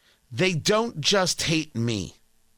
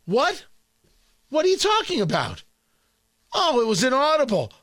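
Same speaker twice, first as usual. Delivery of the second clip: mock White House denial. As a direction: play dumb, mocking the press office. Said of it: "and they're like".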